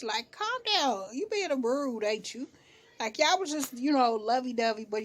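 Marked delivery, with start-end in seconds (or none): 0.3-2.5 mock-condescending "Calm down" swooping high; jerkish. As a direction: tease her like a smug big brother. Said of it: "But it was kinda jerkish".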